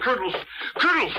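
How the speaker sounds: urgent call down the hall. Acted. Sergeant calling out urgently.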